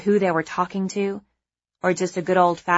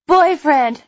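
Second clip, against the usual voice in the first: word coughed out loud and high; fake cough; 9 semitones higher, 9 dB louder than usual. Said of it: "disguised with a fake cough".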